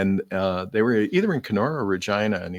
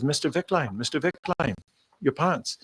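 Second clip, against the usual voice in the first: calling after him; 6 semitones higher than usual. Retold or imitated. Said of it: "And she says".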